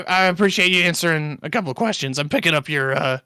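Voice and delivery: drawling southern traveler; southern accent. Acted. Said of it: "turning Sken's voice into a southern accent".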